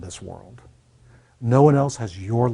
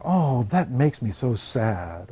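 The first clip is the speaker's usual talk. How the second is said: slow, drawn-out mock sorrow; mock sad; much slower than usual. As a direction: imitate someone feeling sorry, stretching the words. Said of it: "happy, sad".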